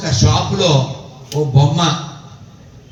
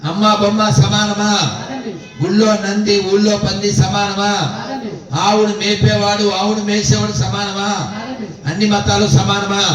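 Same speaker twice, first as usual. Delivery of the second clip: quick-fire quiz; 5 semitones higher than usual. Real, not acted. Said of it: "ఇప్పుడు చకచక అడిగేస్తా".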